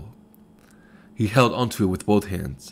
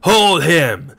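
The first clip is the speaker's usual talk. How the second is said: much higher, loud raving cry; louder, higher furious repeat; raving shout, higher; 9 semitones higher, 7 dB louder than usual. A narrator's reading. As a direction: push the repeat up into a shriek. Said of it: "still raved and danced".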